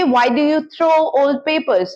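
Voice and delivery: very slow, each word apart; slow model question. Shown as a demonstration. Teacher models a where question, very slow. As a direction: ask it slowly for learners. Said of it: "तो आप क्या करेंगे".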